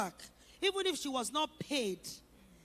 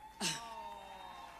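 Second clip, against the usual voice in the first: tearful laugh; 7 semitones lower, 10 dB quieter than usual. Real, not acted. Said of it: "I'm emotional".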